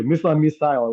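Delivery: "Missile" as MISS-ul, then "missile" as MISS-ile; contrasting MISSILE. Shown as a demonstration. Teacher repeating the example back, "Missile" as MISS-ul, then MISS-ile. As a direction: say "Missile" with a weak vowel, then with a long eye. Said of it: "where you have I sound in British English".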